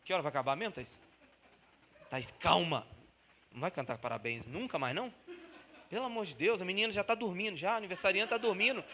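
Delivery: leve imitação de convidado entediado e impaciente; convidado entediado imitado. Retold or imitated. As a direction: reclama à anfitriã, meio de brincadeira. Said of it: "fica assim". (convidado impaciente falando com Thaís, entediado)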